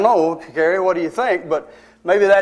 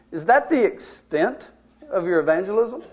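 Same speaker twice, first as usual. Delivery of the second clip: pointed challenge; 4 dB quieter than usual. Retold or imitated. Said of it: "I kinda said it like that".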